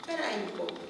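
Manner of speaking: soft, calming request; gentle reassurance. Retold or imitated. Helper calming a crying pregnant woman, gently reassuring. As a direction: softly ask her to wait a moment.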